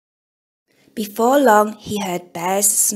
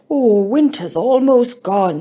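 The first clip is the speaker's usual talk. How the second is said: slow, whispered, louder contented sigh; happy sigh; 6 dB louder than usual. Acted. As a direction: let it out on a drowsy sigh. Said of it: "he sighed happily".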